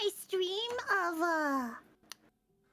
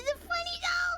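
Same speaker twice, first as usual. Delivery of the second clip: voicing an inner question; 11 semitones higher than usual. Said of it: "I was like".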